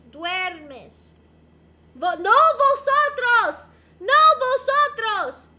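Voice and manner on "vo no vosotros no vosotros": NO VOSOTROS, shouted slow and high; loud slow refusal. Acted. Joking to chat about Spanish verb forms, loud slow mock outrage.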